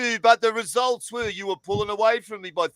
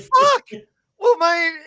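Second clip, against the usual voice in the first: a high, loud laughing curse; shocked laugh at the ref punch; laughing disbelief; 13 semitones higher, 6 dB louder, slower than usual. Real, not acted.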